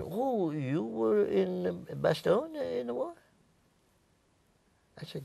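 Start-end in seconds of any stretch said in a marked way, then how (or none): 0.0-3.1 high-pitched Belgian woman, slowly realizing; high retold voice of the Belgian shopkeeper; accented Belgian woman. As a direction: imitate a Belgian woman's amazed question. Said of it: "had a, an accent when she spoke".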